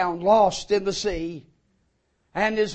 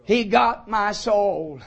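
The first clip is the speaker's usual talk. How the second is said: humbly but joyfully; slower than usual. Shown as a demonstration. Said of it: "I can say humbly but joyfully".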